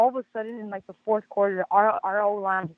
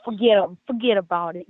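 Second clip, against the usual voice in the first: lightly hammed New York accent, louder; louder mock New York fuhgeddaboudit; 5 dB louder than usual. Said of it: "you gotta bring the accent".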